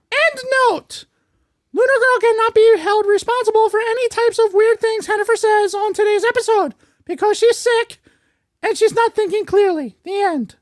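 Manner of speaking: mock-official announcement read; scripted disclaimer. Excusing the sick host to listeners, scripted disclaimer.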